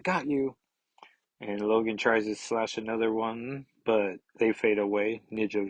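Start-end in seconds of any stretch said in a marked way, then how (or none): 0.0-0.6 whispered quote. Retold or imitated. Reader voices the assassin catching a foe, whispered. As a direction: hush it like a sneak attack. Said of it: "He's like".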